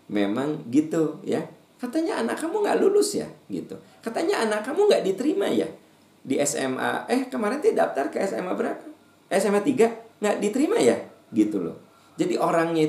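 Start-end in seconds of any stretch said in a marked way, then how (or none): 1.8-3.3 high prying busybody voice; nosy busybody. Acted. Preacher mocking a nosy neighbour, high prying voice. 4.0-11.0 high prying busybody voice; nosy busybody. Acted. Preacher mocking a nosy neighbour, high prying voice.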